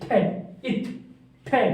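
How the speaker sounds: "थे" and "इथ" with unvoiced th; pronunciation demo. Shown as a demonstration. Teacher shows students the TH sound, pronunciation demo. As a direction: sound out "थे", "इथ", "थे" separately. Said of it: "टीएच की pronunciation होगी इसकी इथ".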